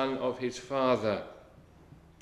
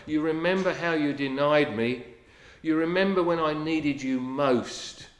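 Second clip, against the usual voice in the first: louder, accusing scolding; hauling someone over the coals; reproachful rebuke; 3 dB louder than usual. Retold or imitated. An offended master rebuking a friend, loud and accusing. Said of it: "would it be something like this?".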